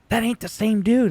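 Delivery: high, put-on voice of a doubting stranger; skeptical fan. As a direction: play a fan who can't believe it's him. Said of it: "You'd see me in person and be like".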